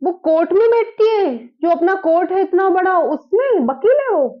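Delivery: can't believe the daughter is a lawyer; stunned disbelief. Real, not acted. Mother hears her daughter is a lawyer, stunned and amazed.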